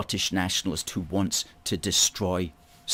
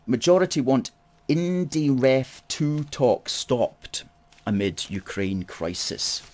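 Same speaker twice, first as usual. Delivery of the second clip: reading a headline aloud; 4 semitones higher, slower than usual. Shown as a demonstration. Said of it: "front page from Friday".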